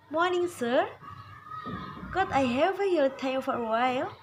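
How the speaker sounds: softened demonstration of asking a favour; gentle request. Shown as a demonstration. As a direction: ask gently, as a courteous request. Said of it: "lebih lembut".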